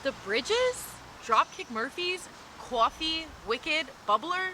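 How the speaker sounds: a touch of imitated Boston accent; mock Boston accent. The speaker doubts her date's words, lightly mocking the Boston accent. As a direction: list each word questioningly, hinting at Boston. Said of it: "no way she really talks like that".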